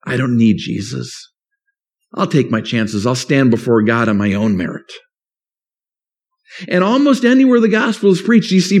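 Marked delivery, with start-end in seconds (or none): 0.1-4.9 proud. Pretend. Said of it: "they respond in hubris".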